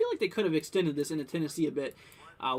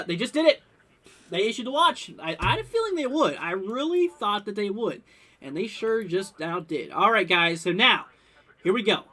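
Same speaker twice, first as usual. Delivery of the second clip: really thrilled it finally happened; genuinely pumped, up and loud; excited; 3 semitones higher, 5 dB louder than usual. Real, not acted. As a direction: voice jumps higher and louder as the news lands. Watch just issued, streamer excited.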